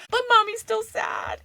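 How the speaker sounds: drawn-out pouty mommy sadness; mock sad. Mom retells telling her daughter she's sad, high and pouty. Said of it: "I said".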